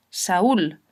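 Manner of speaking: "Saúl" in two syllables, stress on the ú. Shown as a demonstration. Teacher giving an example of a strong u, "Saúl" with stressed ú. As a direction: lean on the ú of "Saúl", apart from the a. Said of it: "se pronuncian con fuerza".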